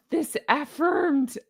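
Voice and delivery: slow, drawn-out affected read; odd reading. Acted. Reading the newsletter in an odd drawn-out voice. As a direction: stretch the word affirmed oddly. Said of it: "why did I say it like that".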